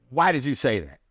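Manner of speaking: sharp, accusing why. Shown as a demonstration. Coach shows the wrong tone, accusing. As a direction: ask it like an accusation. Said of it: "And the inflection kills you".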